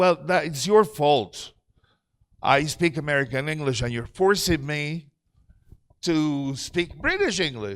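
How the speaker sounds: ordinary talk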